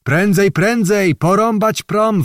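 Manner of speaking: frightened peasants urging to hack the ferry; urgent slow shout. A narrator's reading. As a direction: yell it out slowly and hard. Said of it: "wołali inni".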